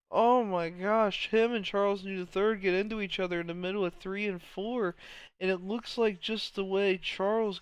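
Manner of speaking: stunned, loud exclamation; excited. Real, not acted. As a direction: still reeling from the crash. Replay of the crash.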